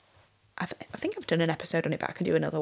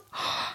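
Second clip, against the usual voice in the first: soft emotional gasp; 8 dB quieter than usual. Real, not acted. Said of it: "I'm gonna get emotional".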